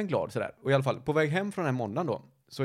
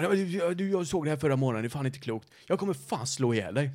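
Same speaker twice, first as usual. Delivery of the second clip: angry neighbour; 3 semitones higher than usual. Retold or imitated. Neighbour voiced threatening.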